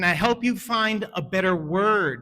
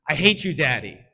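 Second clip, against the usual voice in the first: put-on angry child; 5 dB louder than usual. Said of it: "my daughter said to me".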